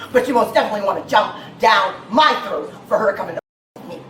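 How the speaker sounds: yelling at the officer; angry shout. Real, not acted. Arguing with officer, shout heard.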